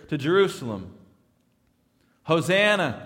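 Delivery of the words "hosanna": crowd shout. Retold or imitated. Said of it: "they shout as he comes in".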